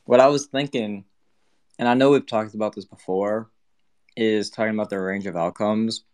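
talking through a mouthful of food; words round a bite; mouth full. Real, not acted. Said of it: "I'm eating".

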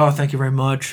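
lightly imitated British accent; a hint of British in a polite thanks. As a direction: put on a mild British accent. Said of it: "in his British accent".

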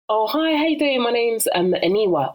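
mock cheery hello; chirpy self-introduction. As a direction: introduce yourself brightly, imitating small talk. Acting out introducing herself.

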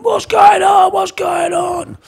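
high, loud, startled shouting; confused shout. Retold or imitated. Father startled awake in care home, confused shout. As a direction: yell it in bewildered alarm. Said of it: "he went".

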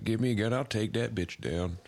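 mock redneck bravado; imitating a gun-happy yokel; nutjob conservative. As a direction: put on a drawling vigilante voice. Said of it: "He's like".

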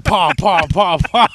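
goose sounds; honking like a goose; goose impression. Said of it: "my impression of a goose getting fucked".

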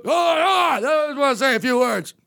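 put-on drunk speechmaker. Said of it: "that's really drunk".

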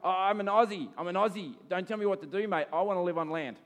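lightly voiced cocky Aussie fish. Preacher voicing a fish who won't be told, cocky. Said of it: "imagine you've got this Aussie fish".

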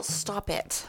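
breathy unvoiced "stop it"; whispered hush. Real, not acted. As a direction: hush a friend mid-joke. Hushing Rachel playfully.

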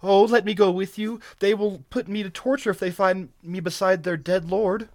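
high-pitched, urgent woman's voice; fearful pleading. A narrator's reading. Captive begging to go with barbarian, frightened. Terrified captive begs the stranger.

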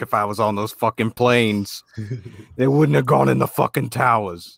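lightly voiced tough-guy celebrity quote; Mark Wahlberg. Comic quoting a star's boast about the hijacked planes, lightly impersonated. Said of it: "Mark Wahlberg was like".

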